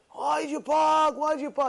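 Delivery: angry yelling. Retold or imitated. Drivers blocking the street yell at the speaker. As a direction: bellow it up high at the double-parker. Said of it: "They start screaming".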